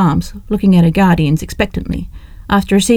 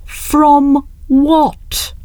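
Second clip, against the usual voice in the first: higher, disbelieving question; incredulous young woman; 8 semitones higher than usual. Acted. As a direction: challenge her aunt. Leslie questions aunt.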